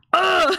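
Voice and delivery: high theatrical "ah" of shock; mock dramatic gasp. Sol reacts to the betrayal, mock-dramatic gasp. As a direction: wail a hammed-up "ah".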